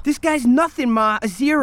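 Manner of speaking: high, loud, scornful outburst; angry shout. Acted. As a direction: spit out her contempt for him. Heated quarrel about mother's lover.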